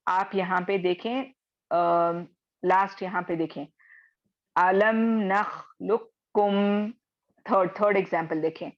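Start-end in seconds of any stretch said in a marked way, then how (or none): 4.6-6.9 "अलम नखलुकुम" slow, with the क doubled; recitation demo. Shown as a demonstration. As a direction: recite slowly, merging क़ into क. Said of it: "कॉफ साकिन है". (धीमी तिलावत, क़ को क में मिलाकर)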